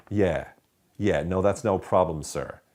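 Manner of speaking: mock-agreeable customer service sarcasm; sarcastic. Shown as a demonstration. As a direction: agree with obvious insincerity. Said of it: "that's not sarcastic, is it? Instead, you could go".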